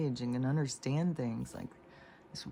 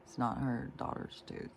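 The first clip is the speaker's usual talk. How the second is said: much softer, letting it sink in; softer, stunned repeat; 7 dB quieter than usual. Real, not acted. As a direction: say it again quietly, horrified. Repeated for emphasis.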